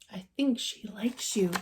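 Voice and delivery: soft unvoiced whisper. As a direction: breathe it secretly to Paddington. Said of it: "whispered Judy".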